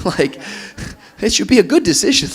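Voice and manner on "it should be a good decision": higher, louder, amused insistence; loud, high-pitched exasperated punchline; emphatic repeat. Real, not acted. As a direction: drive the point home, high and loud, close to laughing. Laughing emphatic repeat to the room.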